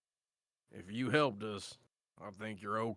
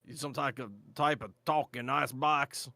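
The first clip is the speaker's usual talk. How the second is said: put-on old-timey gruff rephrasing; lightly voiced frontier dwarf; period-correct dwarf; 2 semitones higher, 4 dB louder than usual. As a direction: reach for the old word icebox. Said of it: "There we go".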